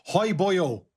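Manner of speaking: put-on a cheery Welsh accent hello. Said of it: "with a Welsh accent".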